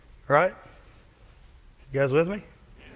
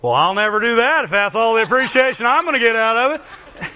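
sulky complaint; 4 semitones higher, 3 dB louder than usual. Pretend. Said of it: "they go".

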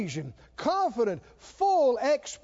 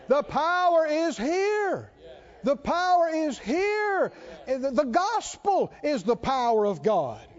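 slow, building, emphatic preaching; preaching at full force; slower than usual. Acted. Preacher to congregation, insisting the power is here, full preaching cadence. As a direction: press each line home to the congregation.

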